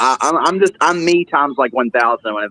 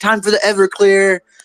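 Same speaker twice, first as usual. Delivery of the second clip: put-on Jamaican accent, pitched higher; 8 semitones higher than usual. Retelling what a Jamaican YouTuber says: imitating a Jamaican YouTuber. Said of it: "the Jamaican dude or whatever".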